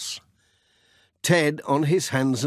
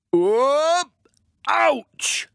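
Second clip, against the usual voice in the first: startled yelp; 14 semitones higher, 4 dB louder than usual. A narrator's reading. Pat hit by falling nails.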